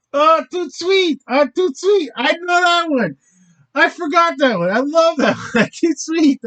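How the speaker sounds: high, delighted burst over a known word; light up, you finally know this one; excited recognition. Real, not acted. Vlogger to viewers, thrilled at a French word he knows.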